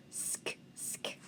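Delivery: "Sk" as a voiceless s-k blend; two bare "sk" blends with no vowel; sounding out. Shown as a demonstration. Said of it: "what do we hear first".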